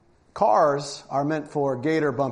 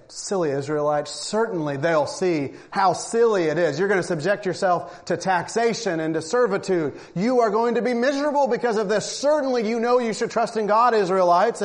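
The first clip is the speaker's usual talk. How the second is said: mock condescension; 3 semitones higher than usual. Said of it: "we read this and we say".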